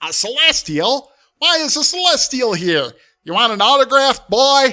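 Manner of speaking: very shrill, very high, very loud squawking. Voicing a demon lord in a game, channeling Iago: Iago voice. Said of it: "I've got a channel Iago from the movie".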